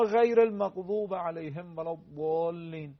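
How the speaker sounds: slow "المغضوب" and "الضالین" with a full, heavy ض; heavy dad. Shown as a demonstration. Teacher showing viewers the dad, heavy "الضالین". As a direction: stretch "الضالین" with a thick ض.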